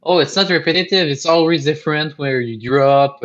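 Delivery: lightly mocking quote of defenders; imitating game's defenders. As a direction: protest as the fans would. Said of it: "some people say, s-, are saying".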